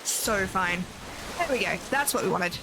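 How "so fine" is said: deadpan fine. Real, not acted. Sarcastic self-reassurance after failure.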